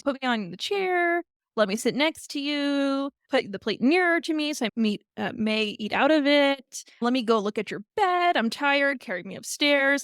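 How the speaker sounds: lightly acted bossy frog, pestering; demanding frog. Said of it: "has all these commands".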